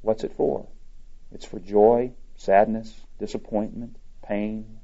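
reading a story aloud to the congregation. A narrator's reading. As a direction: tell the tale gently, voicing the Lord and the angel lightly. Reads Reader's Digest story aloud.

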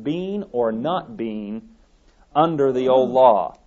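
loud, punched "under" after a pause; stress on UNDER. Real, not acted. Preacher restating the allegory's point, emphatic stress on "under". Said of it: "I emphasize the word under".

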